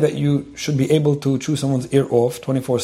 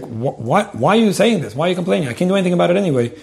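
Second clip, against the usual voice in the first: higher-pitched, mock-exasperated questioning; imitated challenging question; 5 semitones higher than usual. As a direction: rattle off an impatient listener's complaint. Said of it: "there are people that even ask".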